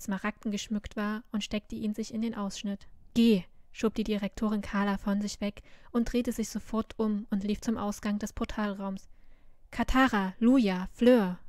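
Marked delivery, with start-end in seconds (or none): 3.1-3.4 one loud command; loud, urgent go; urgent order. A narrator's reading. Headmistress pushes Carla away. 9.7-11.4 loud, falling calls across a hall; loud roll call of names. A narrator's reading. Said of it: "rief Carla".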